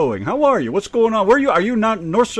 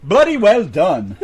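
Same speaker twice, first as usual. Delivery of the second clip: repeated louder; 6 dB louder, slower than usual. Real, not acted. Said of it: "Say again".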